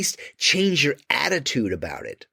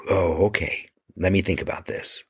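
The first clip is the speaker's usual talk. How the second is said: calm reset; 4 semitones lower than usual. Shown as a demonstration. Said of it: "take a deep breath and go".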